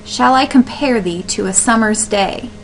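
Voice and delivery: measured reading of a line of poetry; reading aloud. Shown as a demonstration. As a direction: read the verse line out evenly. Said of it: "just read the line out loud".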